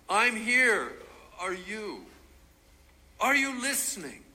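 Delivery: high, loud plea to God; crying out. Acted. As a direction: call out desperately, voice rising.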